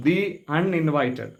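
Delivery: ദി with a long ee before uninvited; drawn-out "thee". Shown as a demonstration. Teacher repeats the example for learners, ദി held long. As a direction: hold the vowel of ദി, then the word. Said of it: "ദി നീട്ടി പറയണം".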